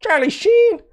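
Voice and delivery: "Charlie Sheen" way up high, "Sheen" held; squeaky exaggeration. Shown as a demonstration. Exaggerated repeat of the name.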